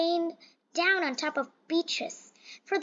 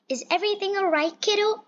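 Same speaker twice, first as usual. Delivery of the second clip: caring father; 6 semitones higher, 4 dB louder, faster than usual. Acted. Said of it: "asked her father".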